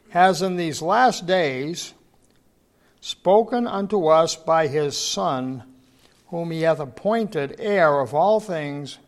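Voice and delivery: scripture reading. Acted. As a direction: proclaim the verse slowly to the congregation. Reads Hebrews aloud.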